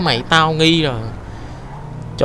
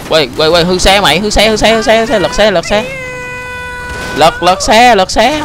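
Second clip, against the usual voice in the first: higher and louder, frantic shouts as the car tips; panicked yelling; 8 semitones higher, 4 dB louder than usual. Real, not acted. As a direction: yell in alarm as the car is about to flip. Player panicking during car crash.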